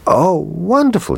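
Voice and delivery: put-on high, delighted child's cry; a little boy thrilled by his present; excited boy. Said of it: "he cried".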